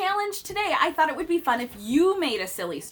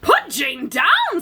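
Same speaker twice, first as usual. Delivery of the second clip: louder, higher and slow; firm order; 8 semitones higher, 9 dB louder, much slower than usual. Acted. Doctor commanding Amelia to set Jane down, loud and slow. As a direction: put it down hard as a stern doctor.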